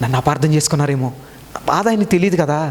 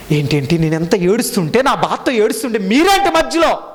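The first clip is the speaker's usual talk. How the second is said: mock indignant retort; 5 semitones higher than usual. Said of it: "అందా?".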